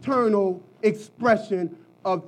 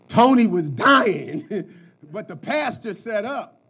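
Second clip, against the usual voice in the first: laughing; 4 dB louder than usual. Real, not acted. Joking about pastor Tony.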